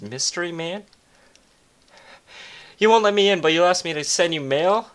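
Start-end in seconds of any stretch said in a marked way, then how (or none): 2.8-4.9 indignant. Acted. Outraged at the stranger.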